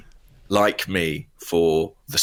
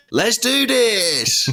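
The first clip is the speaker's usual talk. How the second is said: high, slow, drawn-out Australian holler; mock Australian battle cry, much higher; Australian shout; 14 semitones higher, 3 dB louder, much slower than usual. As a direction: bellow it like an Aussie hyping himself up. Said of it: "an Australian accent shouting out".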